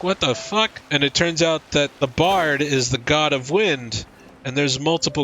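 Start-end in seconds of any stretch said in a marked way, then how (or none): 0.0-0.7 shocked. Retold or imitated. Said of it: "And you're like".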